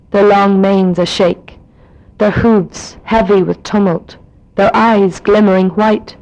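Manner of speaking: slow, measured Irish poem reading; neutral accent poem reading. Shown as a demonstration. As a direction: read the poem slowly in her own neutral accent. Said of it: "in my own accent because I don't have a specifically Donegal accent".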